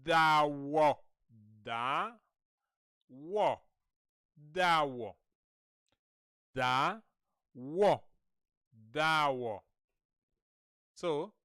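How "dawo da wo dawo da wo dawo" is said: "Dawo" split into "Da" and "wo"; syllable-by-syllable demo. Shown as a demonstration. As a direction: draw out "Da", then land "wo". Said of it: "can you say this?".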